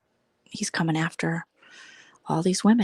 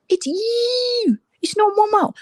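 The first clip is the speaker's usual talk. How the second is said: much higher, loud mocking voice of the Scottish egg; mocking imitation; 5 dB louder, slower than usual. Vlogger mocking the Scottish egg's words, high mocking voice. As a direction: mimic her in a high, sneering voice. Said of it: "The Scottish egg is just like".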